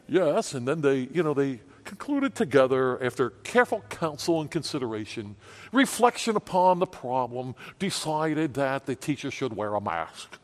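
lightly put-on voice of measured reason; mock rational. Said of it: "talk about this in a rational".

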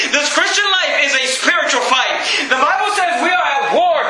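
high, emphatic pulpit delivery; forceful preaching. Real, not acted. Preacher explaining Paul's reaction to congregation, forceful preaching. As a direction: drive the point home from the pulpit.

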